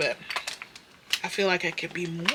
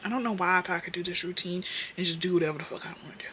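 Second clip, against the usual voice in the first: usual speaking voice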